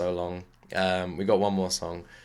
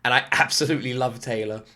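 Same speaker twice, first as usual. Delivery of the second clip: quoting wife. Retold or imitated. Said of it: "she's the exact word".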